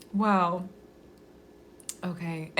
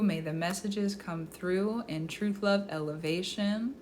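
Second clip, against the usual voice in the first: soft, measured prayer; spoken invocation; 5 dB quieter than usual. Real, not acted. Reader calling in spirits for a client, soft invocation. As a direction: open the reading with a quiet, reverent blessing. Speaks opening invocation before reading.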